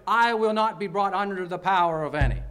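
ringing, resolute authority; decisive, authoritative. Shown as a demonstration. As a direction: declare it firmly, as a settled decision. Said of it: "a decisive and authoritative tone".

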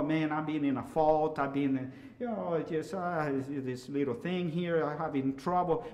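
halting, understated confession; evasive hedging. Retold or imitated. Church member camouflaging a need for help, evasive hedging. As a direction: beat around the bush, trailing into vague fragments. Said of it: "fancy ways of camouflaging".

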